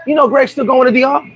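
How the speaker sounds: high, calling out to mom; mocking girlfriend calling her mother; girlfriend telling on him. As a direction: tattle to mom, high and eager. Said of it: "first thing she says to her mother".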